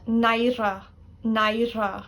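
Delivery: naira with a slender r in the middle. Shown as a demonstration. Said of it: "The word embarrassment".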